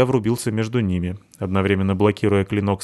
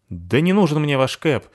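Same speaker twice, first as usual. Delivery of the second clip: shout; 6 semitones higher than usual. Acted. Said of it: "крикнула Абута".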